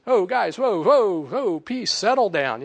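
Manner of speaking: whoa-whoa, settle them down; Jesus calming the disciples. Acted. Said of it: "And Jesus walks in and says".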